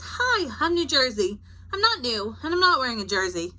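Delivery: a lightly voiced cheeky state; New Jersey talking. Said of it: "and it says".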